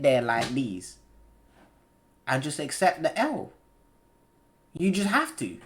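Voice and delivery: soft, drained musing; weary resignation. Real, not acted. Gamer accepting his loss after the blunder, weary resignation. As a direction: let it sink in quietly, defeated.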